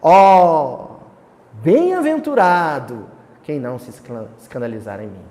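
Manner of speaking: loud declaimed exclamation on "Ó", then falling away. Shown as a demonstration. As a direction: proclaim it like poetry. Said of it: "é uma exclamação". (exclamação declamada, com "Ó" forte)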